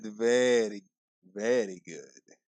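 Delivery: low, slow Borat impression; a lightly done Borat accent; playing Borat, slow and low. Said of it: "Try to do the Borat".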